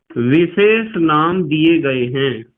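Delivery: slow, drawn out for the class; slow emphasis. Shown as a demonstration. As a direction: spell it out word by word for students. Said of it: "teacher stresses key words slowly". (धीमे, ज़ोर देकर)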